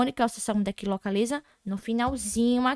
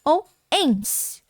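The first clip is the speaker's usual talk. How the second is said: endings dictated slowly, one by one; slow dictation; slower than usual. Shown as a demonstration. Teacher to students reviewing endings, slowly dictated. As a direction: spell it out so they can copy. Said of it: "terminada em A".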